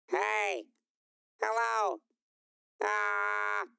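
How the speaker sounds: high, loud greetings through the effect; processed voice test. Shown as a demonstration. Testing the effect on stream with a loud hello. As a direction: call out to test the new voice. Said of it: "I think that's pretty good".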